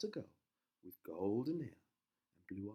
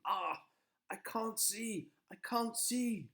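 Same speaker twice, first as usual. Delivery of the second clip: blinded panic; 12 semitones higher, 4 dB louder, slower than usual. Acted. Prince blinded by thorns.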